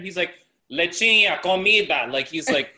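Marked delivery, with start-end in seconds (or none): 0.7-2.1 louder, curt demand for food; mock tantrum. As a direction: bark it like a spoiled husband. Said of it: "Temper tantrum immediately".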